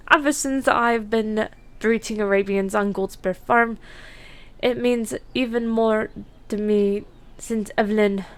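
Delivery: attempted Irish accent, lightly done. Breeder talking of the farm and wife, attempted Irish accent. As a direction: narrate with a hint of Irish brogue. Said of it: "if I offend anyone with that accent".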